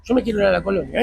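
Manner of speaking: retold huffy refusal from a child; lightly acted annoyance; angry child retold.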